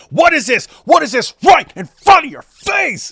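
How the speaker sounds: mock-outraged shopkeeper building to a loud, high rant; incredulous sarcastic yelling. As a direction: needle him harder with every question until you're yelling. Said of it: "he goes like this".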